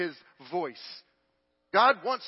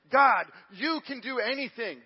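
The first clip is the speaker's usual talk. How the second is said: high, drawn-out confident declaration; bold prayer; 6 semitones higher, 5 dB louder than usual. Shown as a demonstration. Preacher showing boldness in prayer, confident and high. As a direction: proclaim it with full trust, stretched out. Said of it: "the balance between boldness and presumption".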